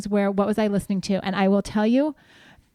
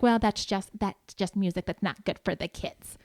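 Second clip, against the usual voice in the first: put-on cranky old woman voice; 3 semitones lower, 8 dB quieter than usual. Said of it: "cranky old woman voice".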